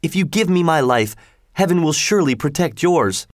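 a fisherman begging for his life; pleading fisherman. A narrator's reading. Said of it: "cried the fisherman".

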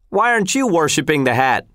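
high taunting question; heckling. Acted. Heckler getting personal with silent soldier, taunting.

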